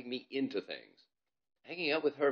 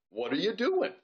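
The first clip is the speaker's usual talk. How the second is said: higher, louder greeting; boy calling up; 9 semitones higher, 7 dB louder than usual. Acted. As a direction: call up to friends. Gazink calling up.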